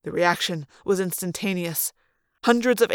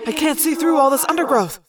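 anxious warning, raised pitch; Tobias; 5 semitones higher than usual. A narrator's reading. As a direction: warn him of hidden danger. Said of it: "Tobias warned from up above me".

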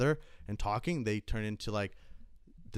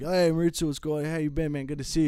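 higher, louder, overly friendly hello; mock eager greeting; 7 semitones higher, 5 dB louder than usual. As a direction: greet him big so the customer hears. Guys greeting for clout.

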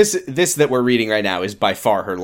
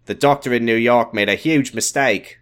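put-on Australian doctor; Australian accent. Doctor breaks news to the family, Australian accent. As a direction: deliver it in an attempted Australian accent. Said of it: "an Australian accent".

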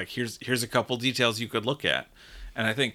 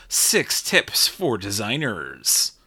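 slow, dramatic trailer announcer; movie trailer voice; 4 dB louder, slower than usual. Acted. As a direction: announce it like a nineties movie intro. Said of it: "I gotta use my movie voice more often".

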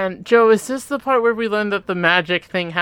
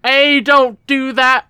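slow, higher mock Cockney accent; hammy Cockney impression, louder; Dick Van Dyke Cockney accent; 7 semitones higher, 4 dB louder, slower than usual. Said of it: "should I do a Dick Van Dyke trying to be a Cockney English accent".

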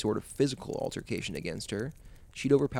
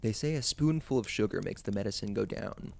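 calm, measured storyteller reading; steady narrator voice; story narration. A narrator's reading. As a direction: set the scene like a campfire tale.

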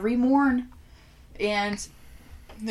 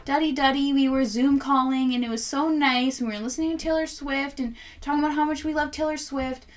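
imitating the caller; 5 semitones higher than usual. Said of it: "this person called in and was like".

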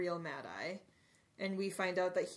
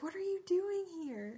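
higher, squeaky elf voice; a lightly squeaked house-elf line; playful high elf voice; Winky the house elf; 11 semitones higher than usual. Retold or imitated. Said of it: "Winky's like".

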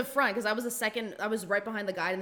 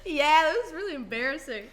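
laughing repeat; 5 semitones higher than usual. Retold or imitated. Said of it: "He did say that".

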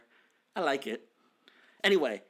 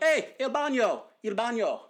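calling out; 5 semitones higher than usual. Retold or imitated. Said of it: "So I'm like".

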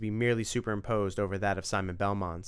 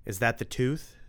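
quick cheeky pun; 2 semitones higher than usual. Acted. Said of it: "Tim shot back".

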